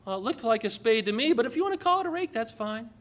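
mock the timid people-pleaser; mock wishy-washy. Preacher mocking the world's spineless answer, lightly voiced. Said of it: "What the world wants us to do is say".

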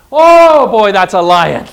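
excited exclaim. Real, not acted. Preacher marvels at Moses to his listeners, excited. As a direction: burst out with delight. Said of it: "preacher exclaiming in excitement".

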